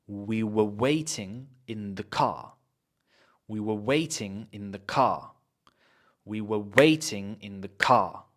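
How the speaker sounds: WAITING and CAR stressed, "were" weak; stress on content words. Shown as a demonstration. Teacher models for students, stress on content words. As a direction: punch "waiting" and "car", pass lightly over "were". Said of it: "waiting car is very important".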